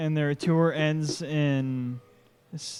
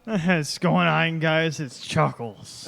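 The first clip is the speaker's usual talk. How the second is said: tipsy, slow greeting; drunk; 3 dB louder, slower than usual. Pretend. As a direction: slur it a little like you've had a couple. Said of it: "Chuckles sounds a little drunk right now".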